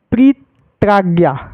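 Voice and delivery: प्रीत्राज्ञा slowly, with a break after प्री; slow syllable split. Shown as a demonstration. Teacher showing the joined word, slow split demonstration. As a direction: split प्रीत्राज्ञा into two held parts.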